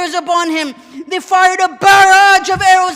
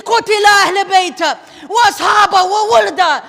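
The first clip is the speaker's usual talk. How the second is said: commander shouting. Retold or imitated. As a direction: yell at the troops in disbelief. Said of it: "He's screaming at his soldiers".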